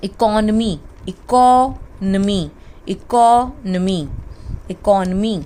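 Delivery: economy as ee-KON-uh-mee, stressed KON; correct economy. Shown as a demonstration. Teacher drills economy for students, careful and slow. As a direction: repeat economy deliberately and clearly. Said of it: "So this is basically".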